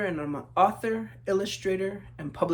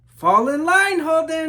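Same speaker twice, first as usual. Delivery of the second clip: higher, louder sharp order; stern teacher call; 10 semitones higher, 14 dB louder than usual. Acted. Teacher scolding the daydreaming Holden, loud stern call. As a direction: snap the boy back into line.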